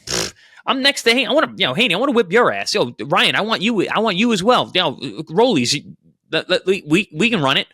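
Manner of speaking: high, cocky fighter calling out rivals; pretend brash callout. Pundit playing Teo at the dais, calling out rivals brashly. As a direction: play Teo trash-talking the whole division, a little hammed-up. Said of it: "if I'm Teo".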